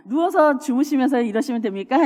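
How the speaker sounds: a touch of heated sarcastic comeback, half laughing; mildly mock-fierce scolding; talking back to a sister in a quarrel; harsh retort. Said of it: "이런 말을 매우 과격하게".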